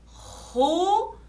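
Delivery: "Ruas" split into RU, pause, AS; very slow syllables. Shown as a demonstration. Teacher showing one clap per syllable, very slow syllables. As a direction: draw out RU, then a separate AS. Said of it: "Fale bem devagar e bata uma palma".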